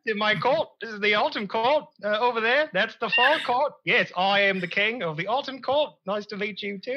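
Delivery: lightly voiced fey queen, a bit high; a hint of a regal fey queen; Queen of the Feywild. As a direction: greet them as a fey cult leader. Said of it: "I'm the Queen of the Feywild".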